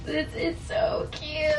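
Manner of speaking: very high, soft, slow squeal; moved delight. Real, not acted. Vlogger opening a cute gift, moved and delighted. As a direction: coo it high and small, drawn out.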